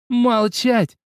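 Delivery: loud, high furious snap; growled command. A narrator's reading. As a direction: growl the order to silence her. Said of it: "прорычала на ту принцесса".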